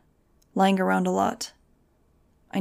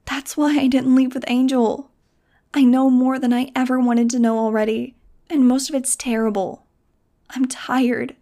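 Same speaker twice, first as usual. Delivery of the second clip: put-on higher, louder young girl voice, insistent; pleading girl; 5 semitones higher, 4 dB louder than usual. A narrator's reading. Nudge arguing with Max to stay on the island, pleading. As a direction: beg her friend to stay put.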